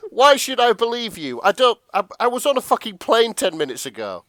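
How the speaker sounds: high, loud indignant mock panic; hammed-up freaked-out survivor; Jack. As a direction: protest in comic outrage. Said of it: "And Jack's like".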